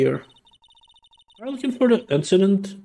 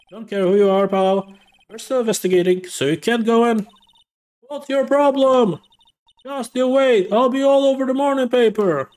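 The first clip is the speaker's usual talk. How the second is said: angry reporter; 6 semitones higher than usual. Acted. Reporter yelling at the detective blocking the scene, higher and angry. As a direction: stand your ground and fight the cop.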